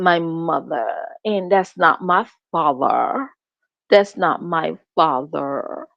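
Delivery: imitating a put-on English "mother" and "father"; mock English accent. Mocking how he says family words, fake English accent. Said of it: "like he from England".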